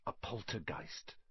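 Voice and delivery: hushed, voiceless whisper. A narrator's reading. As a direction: whisper it so only kids hear. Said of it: "Percy whispered to the first years".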